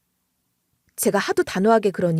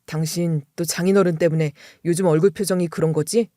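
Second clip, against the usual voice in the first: a husband's lower, gentle voice; lightly voiced husband, low and soothing; reassuring husband; 5 semitones lower than usual. Husband comforting his worried wife, low and gentle. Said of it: "저를 이렇게 안심시켜주는 거예요".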